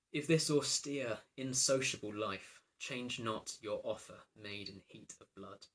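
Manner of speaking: slow declamation, strong opening then easing; verse recitation. Acted. Princess testing the king's offer, slow declamation. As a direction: declaim slowly, hitting the first words hard.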